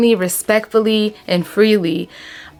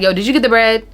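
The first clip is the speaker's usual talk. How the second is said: a little nasty, doubting question; mildly accusing check; distrustful tone; faster than usual. Shown as a demonstration. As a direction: ask as if sure they forgot. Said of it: "I don't trust that you really got the bread".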